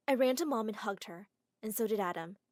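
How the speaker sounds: ordinary delivery, nothing marked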